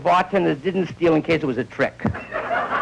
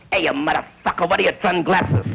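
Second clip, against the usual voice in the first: South Philly tough. Retold or imitated. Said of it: "the most insulting thing in the world to South Philly".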